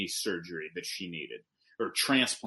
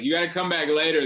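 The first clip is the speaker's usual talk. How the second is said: mock yell; 4 semitones higher, 5 dB louder, faster than usual. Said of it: "I would yell at him".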